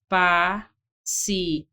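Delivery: pa-ci-en spoken in separate beats; spelling out pa-ci-en slowly; syllable by syllable. Shown as a demonstration. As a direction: break pa-ci-en into distinct syllables. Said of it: "deveria ter sido separado".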